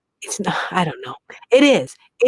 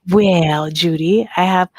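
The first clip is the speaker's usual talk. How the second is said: put-on tentative, drawn-out Southern accent; attempted Southern accent; 3 semitones lower, slower than usual. Host answering Judy about her arthritis, attempted Southern accent. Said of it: "how I would do it in a Southern accent".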